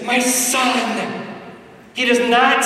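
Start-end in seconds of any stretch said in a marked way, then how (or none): 0.0-1.2 tearful cry. Retold or imitated. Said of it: "with tears in his eyes".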